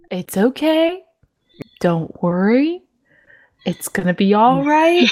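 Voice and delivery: imitated too-careful soothing, lilting upward; hammed-up reassurance with rising endings; mock reassurance. Imitating friends about to break bad news, mock reassurance.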